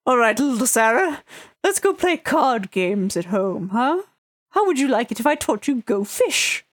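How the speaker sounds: lightly voiced old man, gentle and coaxing; a hint of grandpa coaxing a child home; doting grandfather. Grandfather coaxing little Sarah home to play cards, lightly voiced doting old man. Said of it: "He kinda just looks up at you".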